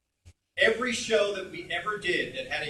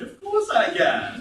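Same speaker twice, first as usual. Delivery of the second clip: loud, high cartoon villain; hammed-up, high-pitched show-off; James from Team Rocket; 8 semitones higher, 9 dB louder, slower than usual. Shown as a demonstration. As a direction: draw it out with theatrical flourish. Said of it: "Can I voice James from Team Rocket?".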